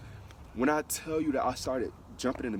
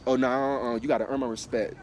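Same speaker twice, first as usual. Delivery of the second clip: louder sassy imitation of a stuck-up person; mock haughty refusal; 4 dB louder than usual. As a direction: toss it off like a snooty person, louder. Mocking people demanding respect first.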